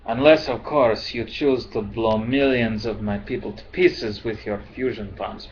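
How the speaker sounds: put-on bitter retort in a rough Centauri accent; lightly done Centauri accent; terrible Centauri accent. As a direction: attempt a Centauri accent, badly. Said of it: "My accent is terrible".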